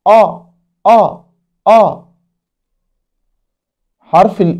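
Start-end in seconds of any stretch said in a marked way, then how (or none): 0.1-2.0 the long vowel آ drawn out open and held; long a sound. Shown as a demonstration. Teacher models آ for children, drawn out. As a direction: say آ as an open long a, three times. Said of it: "ينطق".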